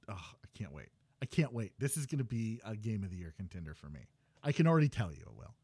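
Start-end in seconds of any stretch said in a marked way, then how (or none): 0.1-0.9 breathy eager whisper. Real, not acted. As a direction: whisper it under your breath.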